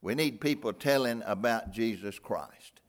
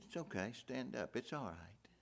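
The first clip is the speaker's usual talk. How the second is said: soft reassuring whisper; 12 dB quieter than usual. Acted. Jesus comforting scared disciples.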